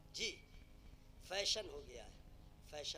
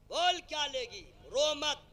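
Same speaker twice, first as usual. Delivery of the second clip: loud, high demand, hammed up; mock-angry shout; exasperated husband; 7 semitones higher, 12 dB louder, slower than usual. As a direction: play a husband shouting an offer to stop tears. Acts husband stopping wife's tears.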